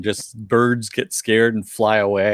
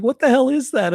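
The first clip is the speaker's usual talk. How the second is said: mock outrage; 12 semitones higher than usual. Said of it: "He's like".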